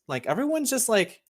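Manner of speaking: talking through a burp; burping the words. Real, not acted. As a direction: let a burp break the words. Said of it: "Sorry, there's a burp".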